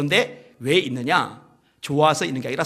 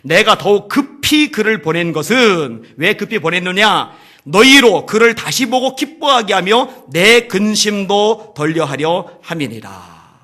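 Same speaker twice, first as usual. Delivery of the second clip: slow, loud scripture reading; solemn scripture reading; 3 semitones higher, 10 dB louder, slower than usual. Acted. Preacher reading Paul's letter, slow and solemn. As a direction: weigh each word of the verse.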